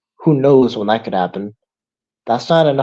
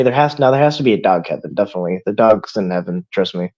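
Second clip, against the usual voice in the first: joking; 3 semitones lower, faster than usual. Retold or imitated. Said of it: "kinda joking way".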